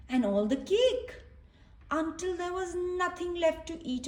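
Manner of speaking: gentle read-aloud voice for little ones; storybook reading. A narrator's reading. Reading a picture book to children, gently storytelling.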